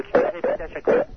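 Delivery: shrill mock echo, very high; mocking falsetto. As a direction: parrot her in a squeaky voice. Mocking the partner's complaint.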